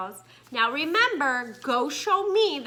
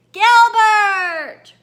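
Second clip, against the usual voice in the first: higher, much louder squeal; squealed name; 8 semitones higher, 12 dB louder than usual. Acted. Rita finding Gilbert in the dark, loud squeal. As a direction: squeal his name in relief. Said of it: "Rita squirreled".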